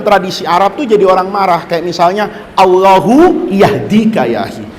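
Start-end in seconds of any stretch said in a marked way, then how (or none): 2.5-4.7 pointedly pious put-down; a rebuke wrapped in a prayer; disapproving. Shown as a demonstration. Teacher shows students a disapproving Arabic prayer. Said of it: "tandanya dia nggak setuju".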